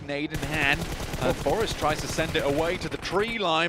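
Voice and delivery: keen match caster; live play-by-play. Real, not acted. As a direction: call the action as it unfolds.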